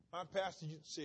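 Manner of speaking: ordinary talk, nothing marked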